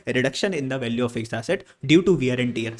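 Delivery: very slow, word by word, for writing down; slow dictation. Shown as a demonstration. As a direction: dictate it slowly so they can note it. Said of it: "definition को याद कर लेना". (धीरे-धीरे लिखवाना)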